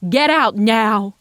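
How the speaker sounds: loud, slow, final command; shouting him out the door; furious shout. A narrator's reading. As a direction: hammer each word. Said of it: "her mother shouted past her".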